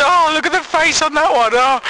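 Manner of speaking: high, giggly mocking voice; laughing mockery. Edmonds laughing at the boy's photo, high giggly mockery. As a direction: squeal it out through a laugh, pointing at the photo. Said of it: "he starts laughing".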